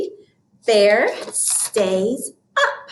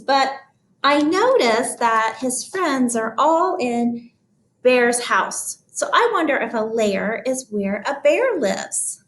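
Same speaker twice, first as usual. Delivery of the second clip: puzzled musing, starting high and settling; thinking voice; 4 semitones higher than usual. Shown as a demonstration. Teacher puzzles over the word lair, thinking voice. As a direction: wonder aloud, working out a word. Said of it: "Use my thinking voice again".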